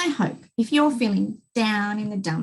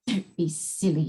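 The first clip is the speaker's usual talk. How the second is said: gentle reply; 4 semitones lower than usual. Acted. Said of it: "she replied".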